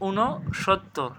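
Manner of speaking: "ঊনসত্তর" slowly as ঊনো-সোত্-তোর; correct pronunciation. Shown as a demonstration. Teacher showing correct pronunciation, "ঊনসত্তর" slow and split. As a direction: separate the pieces of "ঊনসত্তর". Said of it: "সঠিক উচ্চারণ কী হবে".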